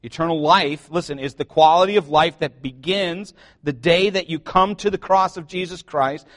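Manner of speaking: ordinary talk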